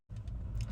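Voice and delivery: long breathy sigh of relief; relieved sigh. Real, not acted. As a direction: let the tension out in one breath. Overwhelmed relief at the shop.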